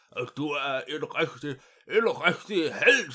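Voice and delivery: loud, slow, pompous praise with a laugh; laughing king. Acted. King praising Mathilde as a hero, loud laughing pomp. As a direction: bellow praise like a jolly king.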